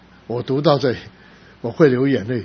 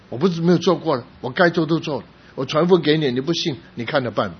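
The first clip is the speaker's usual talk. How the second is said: louder, higher mock preacher scolding "take it or leave it"; mock threatening preacher; 5 semitones higher, 4 dB louder than usual. Preacher mocks a pushy evangelist to the congregation, louder and higher. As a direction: play a pushy preacher who shrugs off the unbelievers.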